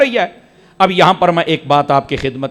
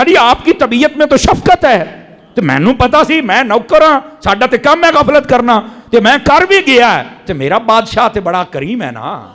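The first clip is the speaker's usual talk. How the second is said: servant's fond reply; 6 semitones higher than usual. Retold or imitated. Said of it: "اس نے کہا".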